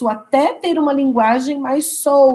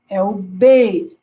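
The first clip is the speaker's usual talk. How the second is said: slow demo; 3 semitones lower, much slower than usual. Shown as a demonstration. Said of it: "Se tem essa vibração".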